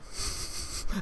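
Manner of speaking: soft, voiceless mock snigger; wordless breathy laugh, mimicked; imitated stifled laugh. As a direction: imitate a mate's suppressed laughing. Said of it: "but he was laughing".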